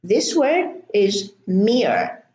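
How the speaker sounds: mere said slowly with a long ee before the r; slow word demo. Shown as a demonstration. Teacher introducing mere in a slow demo. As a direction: slowly present mere to the class. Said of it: "there is an R and there is a silent E".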